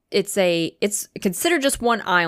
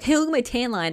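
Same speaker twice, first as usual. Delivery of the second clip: higher-pitched mom impression; imitated mother; 6 semitones higher than usual. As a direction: mimic mom showing off, pitched up. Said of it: "And then she'll be like".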